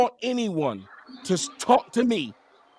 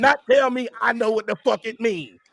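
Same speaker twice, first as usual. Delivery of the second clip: heated shout; 5 semitones higher than usual. Real, not acted. Heated argument about the slur.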